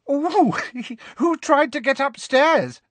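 put-on high, teasing girlish squeal with a giggle; giggly and happy. A narrator's reading. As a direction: squeal it loudly through giggles. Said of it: "they giggled happily".

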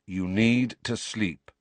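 slow, firm and certain; slow firm godfather. Acted. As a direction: settle it with authority. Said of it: "said Sirius firmly".

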